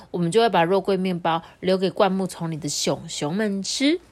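slow, playful coaxing; sly teasing mother. Acted. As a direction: tease like a wink. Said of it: "猫头鹰妈妈就眨眨眼睛说".

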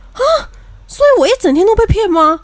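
high, outraged question; indignant disbelief. Retold or imitated. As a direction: she can't believe it, loud. Friend realizes she was fooled.

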